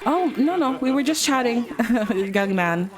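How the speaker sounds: high, nervous auntie brushing it off; lightly voiced flustered auntie. Auntie Marg flustered, fleeing kitchen.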